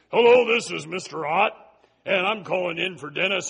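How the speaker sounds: lightly voiced nasal father on the phone; faking a father calling in sick, mild; imitating a nasal dad. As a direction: put on a thin, unmanly dad voice. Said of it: "his father talked like this".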